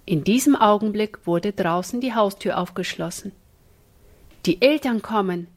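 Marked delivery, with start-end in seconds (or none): 4.4-5.5 horrified cry. Acted. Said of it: "riefen alle drei entsetzt".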